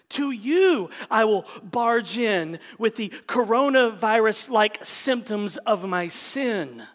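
earnest prayer crying out to Jesus; fervent prayer. Pretend. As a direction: build it big then let it sink. Acted prayer of running to Jesus.

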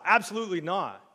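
a strict grandma's firm no. Shown as a demonstration. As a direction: say it like you mean it. Firm no example.

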